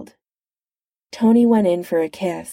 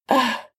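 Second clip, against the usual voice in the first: strangled ugh; 6 semitones higher than usual. Acted. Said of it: "was all he could manage".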